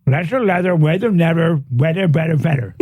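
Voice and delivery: slurred words from a numbed mouth. Real, not acted. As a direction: mumble as if after novocaine. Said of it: "My whole mouth is numb".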